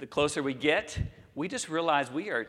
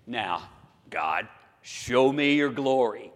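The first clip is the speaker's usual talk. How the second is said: bold request; 6 dB louder than usual. Retold or imitated. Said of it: "something very, very brave".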